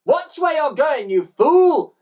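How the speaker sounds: high, furious yell; yelled scolding. A narrator's reading. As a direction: yell at the driver, swelling on the insult. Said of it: "yelled Missus Glutton".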